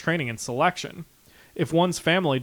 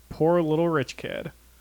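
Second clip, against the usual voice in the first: ordinary delivery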